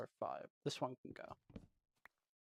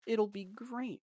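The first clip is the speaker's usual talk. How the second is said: higher, upbeat repeat; excited; 6 semitones higher, slower than usual. Shown as a demonstration. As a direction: lift it with excitement. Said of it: "repeated, higher and excited".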